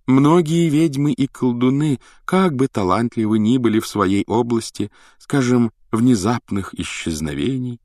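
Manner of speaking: высокий мистический голос, медленно к концу; таинственно, нараспев, как провидица; загадочная прорицательница. Acted. Голос Трелони на уроке. (высокий загадочный голос прорицательницы)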